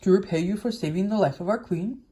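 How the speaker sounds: lightly voiced big mouse. A narrator's reading. Big mouse offering thanks to rescuer, lightly voiced. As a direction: give the question a slight character voice. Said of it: "one of the biggest mice spoke".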